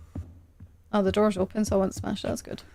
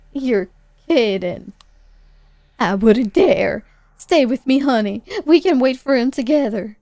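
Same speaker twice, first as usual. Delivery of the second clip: voicing Mom; 5 dB louder than usual. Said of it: "I can't do accents".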